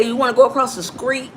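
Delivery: "street" said as skreet; Southern local pronunciation. Retold or imitated. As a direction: imitate local talk with skr in "street". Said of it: "They would say".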